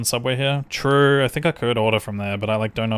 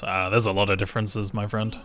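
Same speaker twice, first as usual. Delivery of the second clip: put-on Austrian accent. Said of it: "Australian slash Austrian accent".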